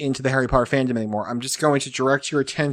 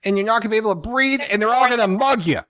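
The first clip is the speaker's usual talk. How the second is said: mock New York thug; 8 semitones higher than usual. Husband mimicking Jen's warning about Comic-Con, mock thug voice. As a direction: drag it out like a mafia heavy. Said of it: "Jen has turned into, like, thug".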